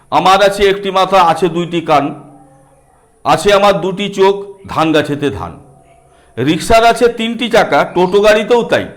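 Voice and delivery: put-on sing-song reading of a children's rhyme; lightly chanted nursery rhyme; rhyme recitation.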